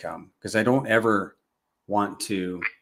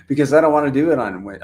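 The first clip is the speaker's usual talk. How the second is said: laughing; 5 semitones higher, 6 dB louder, faster than usual. Real, not acted. Laughing while explaining.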